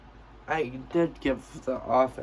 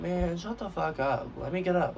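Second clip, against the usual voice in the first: annoyed retort; 5 semitones higher than usual. Retold or imitated. Pinned student to the one holding them, mock annoyed. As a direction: act out a mildly fed-up protest. Acted retort while held down.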